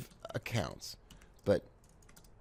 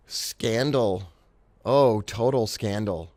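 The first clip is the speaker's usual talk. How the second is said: mock outrage; 6 dB louder, slower than usual. Mock outrage at failed trade.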